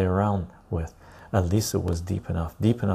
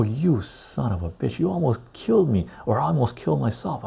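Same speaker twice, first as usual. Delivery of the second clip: retold anger; 5 semitones higher than usual. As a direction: give him a piece of your mind. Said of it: "I was very pissed".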